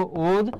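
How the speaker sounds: "উদ" said as its own closed syllable, ending on d; first syllable "উদ" set apart for teaching; syllable-by-syllable pronunciation. Shown as a demonstration. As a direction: sound out "উদ" separately, then stop. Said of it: "এর উচ্চারণটা কি হবে".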